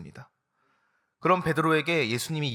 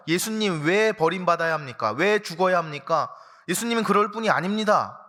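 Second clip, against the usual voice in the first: mildly raised, pleading protest; a hint of protesting Peter; 4 semitones higher, 4 dB louder than usual. Peter protesting to Jesus, lightly voiced and raised. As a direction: push back, half-pleading.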